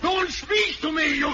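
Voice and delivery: alarmed outburst. Acted. Doctor bursts out alarmed.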